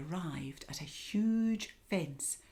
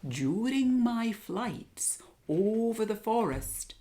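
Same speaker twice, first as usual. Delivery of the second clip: wise owl voice; 5 semitones higher, 3 dB louder than usual. Acted. Owl speaks.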